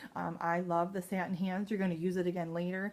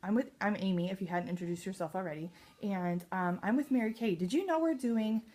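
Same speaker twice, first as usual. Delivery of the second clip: cheerful pitch demo. Shown as a demonstration. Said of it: "then you say".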